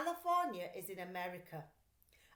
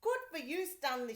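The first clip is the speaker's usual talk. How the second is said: higher mother's praise; proud mother; 5 semitones higher, 5 dB louder than usual. A narrator's reading. Mother praising her son, higher voice. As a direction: praise the boy brightly. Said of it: "she said".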